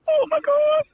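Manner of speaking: high, long held wail; stretched-out groan of despair; desperate. Retold or imitated. Desperate need for toilet.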